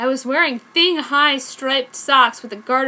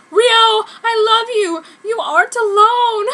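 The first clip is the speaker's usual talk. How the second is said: morose; 11 semitones higher, 9 dB louder than usual. Acted. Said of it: "I said morosely".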